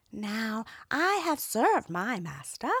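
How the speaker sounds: a lame horse lamenting; old horse voice. Acted. Horse speaks in tale.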